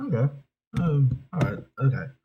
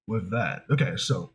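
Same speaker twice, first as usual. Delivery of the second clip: usual speaking voice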